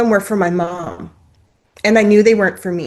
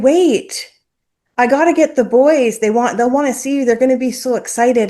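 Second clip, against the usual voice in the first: eager urgent plea; 4 semitones higher than usual. Retold or imitated. Retelling urging him to stay.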